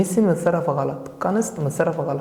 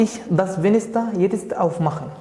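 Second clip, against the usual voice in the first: slow dictation; 2 semitones higher, much slower than usual. Shown as a demonstration. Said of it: "reads the exercise sentence aloud".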